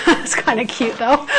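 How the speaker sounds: said through a laugh. Real, not acted. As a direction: let a chuckle run through the words. Amused at own timid demo.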